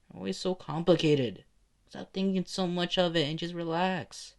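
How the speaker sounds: lightly voiced kid god telling someone off; scolding little kid. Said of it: "the little kid slowly floats up".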